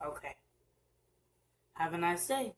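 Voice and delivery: soft, unbothered dismissal; calm quiet brush-off. Shown as a demonstration. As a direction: say it gently and move on. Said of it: "You just say".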